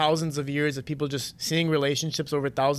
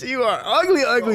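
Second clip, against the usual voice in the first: loud, high mock disgust at his own face; 7 semitones higher, 4 dB louder than usual. Talking to a lookalike date, loud mock disgust. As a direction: sneer at the mirror, laughing. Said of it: "I'll be like".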